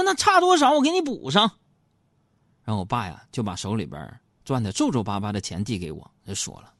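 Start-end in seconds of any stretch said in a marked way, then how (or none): 0.0-1.4 high, loud eager offer; generous offer. Retold or imitated. Son grandly offering to make up the difference for dad, high and loud. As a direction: jump in keen to cover the gap.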